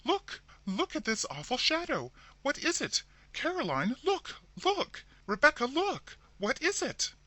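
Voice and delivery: very high, loud frightened shrieks; terrified woman shrieking at a shadow on the wall; shrieking in horror. A narrator's reading. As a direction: scream for the others to look at the shadow. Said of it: "she shrieked out".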